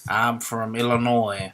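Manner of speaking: slow, badly faked Illinois accent; drawn-out put-on American accent; dubious Illinois accent. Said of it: "You don't sound like you're from Illinois".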